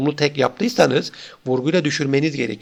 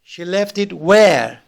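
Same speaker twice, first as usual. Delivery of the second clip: slow echo question, "where" raised and stressed; rising question word; 2 semitones higher, slower than usual. Shown as a demonstration. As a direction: lift your voice on the final "where". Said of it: "marked by rising intonation".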